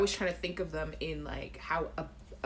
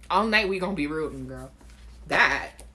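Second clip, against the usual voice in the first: Caribbean spin; 3 semitones lower, 7 dB louder than usual. Shown as a demonstration. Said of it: "we put our little spin on it, our little accents".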